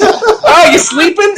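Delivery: high-pitched Chicago twang; Chicago robot. Acted. Chicago robot checking on sleeping victim, high mock twang. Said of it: "pretend it's a Chicago robot".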